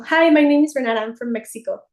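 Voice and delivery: shy new student introducing herself in class; nervous self-introduction. Retold or imitated. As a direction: blurt it out nervously. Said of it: "a la hora de presentarme era como".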